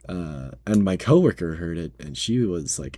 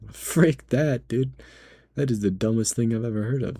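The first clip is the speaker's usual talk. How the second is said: higher, louder frick that; indignant outburst; 5 semitones higher, 3 dB louder than usual. Retold or imitated. Cashier arguing with manager, indignant and higher. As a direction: snap it back in disbelief. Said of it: "I was like".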